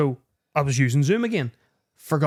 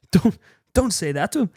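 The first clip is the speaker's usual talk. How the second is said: imitating Carl; 4 semitones higher than usual. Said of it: "Carl talks like that".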